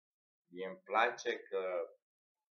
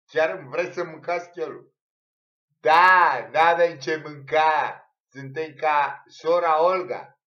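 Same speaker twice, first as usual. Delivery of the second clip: mock shout; 6 semitones higher, 16 dB louder than usual. Acted shouting exchange.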